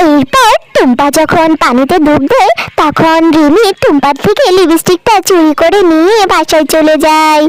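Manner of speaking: calm narrator reading a cartoon tale; story narration. A narrator's reading. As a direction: tell it plainly to the children. Storyteller narration between voices.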